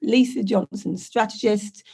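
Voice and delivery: hoarse, croaky voice from covid; a real croak, like a frog. Real, not acted. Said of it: "I won't sound quite so like a croaky frog".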